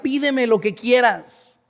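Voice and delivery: slow, emphatic divine offer; voice of God. Acted. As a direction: stretch the offer out, marveling at it. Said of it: "Imagínate que Dios te dijera". (voz de Dios, lenta y enfática)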